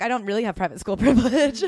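laughing through it. Acted. Host mocking the author's obliviousness, laughing. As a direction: crack up on the punchline. Joking quote breaks into laughter.

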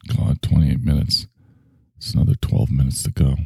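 listless, low-pitched clock-watching; deliberately boring. Shown as a demonstration. Host counting down a dull podcast, mock bored. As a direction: drag it out with long empty pauses. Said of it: "I'm gonna be boring right now".

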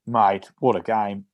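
slow, lightly put-on Australian accent; a hint of drawn-out Australian. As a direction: imitate an Aussie coach's congratulations. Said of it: "an Australian accent on the phone".

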